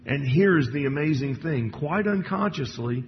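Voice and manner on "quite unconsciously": "unconsciously" lingered on, stretched and stressed. Shown as a demonstration. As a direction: lean hard on "unconsciously". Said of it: "I would emphasize the word unconsciously".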